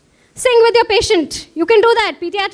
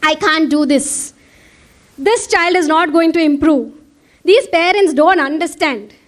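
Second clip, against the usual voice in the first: negative self-talk. Shown as a demonstration. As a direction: voice the doubt in your head. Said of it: "racing thoughts in your mind which are negative".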